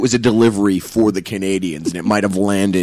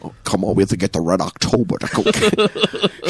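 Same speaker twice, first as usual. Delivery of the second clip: Sean Connery impression; 3 semitones lower, faster than usual. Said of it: "Sean Connery as a Russian submarine operator".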